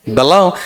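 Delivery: बलाओ with a light ब and a drawn-out, rising second half; iambic stress. Shown as a demonstration. Teacher demonstrates an iamb aloud, बलाओ rising on its stressed second syllable. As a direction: lean into the end of बलाओ. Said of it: "unstressed followed by stressed".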